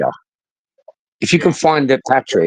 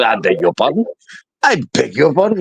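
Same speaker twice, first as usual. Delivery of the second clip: mildly affronted, proper questioning; middle-class indignation. Retold or imitated. Told to move out the way, mock middle-class indignation. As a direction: take polite offence, rising on pardon. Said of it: "Patrick can be, like, kind of middle classy".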